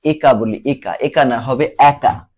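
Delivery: একা said as "æka", open e at the start; teacher modelling একা as "æka" for the class; একা spoken slowly and clearly as "æka"; standard pronunciation. Shown as a demonstration. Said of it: "যেমন আমরা".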